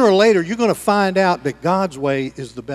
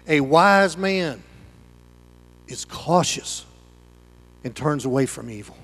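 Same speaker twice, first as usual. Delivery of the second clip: deliberate rereading; 3 semitones lower than usual. Shown as a demonstration. Preacher rereading the verse to the congregation, deliberate. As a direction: draw out "wise man", let each phrase settle lower. Let me read it to you again.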